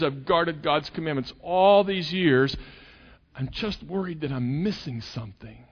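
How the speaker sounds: put-on anxious young man. Young man voiced pleading to Jesus.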